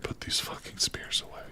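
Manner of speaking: hushed, breathy curse under the breath; whispered aside. Real, not acted. Gamer muttering to himself about his spears, whispered. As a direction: mutter it to yourself, barely voiced.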